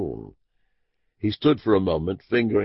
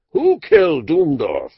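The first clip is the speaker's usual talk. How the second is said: sharp demand; 6 dB louder than usual. Acted. Abner demands the killer's name.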